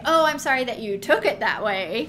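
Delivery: flip, dismissive fake apology; mock non-apology. Mocking how people dodge a real apology, in a flip non-apology. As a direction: toss off a hollow sorry, lightly mocking. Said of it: "And we might say".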